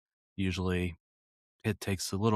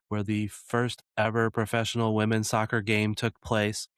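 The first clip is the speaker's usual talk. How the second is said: flat robotic announcer read; monotone like a robot reading. Real, not acted. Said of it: "Why'd you say it like that, like a robot?".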